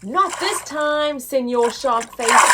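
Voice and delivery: loud playful pirate taunt. Acted. Pirate Joe taunts the shark, playful and loud. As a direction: defy the shark with gusto.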